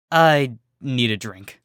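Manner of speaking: slow, dry and flat-toned; deadpan. Acted. Berry Shine walks off from the fish pony, slow deadpan. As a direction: say it like you've seen too much.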